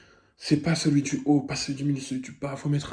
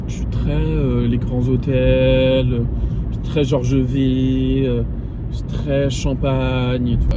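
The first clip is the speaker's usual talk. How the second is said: slow, loud, mock-grand drawl; stretching the words to sound classy; mock distinguished; 4 dB louder, much slower than usual. Bragging to viewers about luxury hotels, in a slow mock-grand voice. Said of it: "je suis quelqu'un de distingué".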